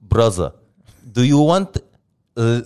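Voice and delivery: halting, loud Arab learner of English; Arab man's beginner English, word by word; Arab accent. Acted. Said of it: "do an Arab man who just learned English".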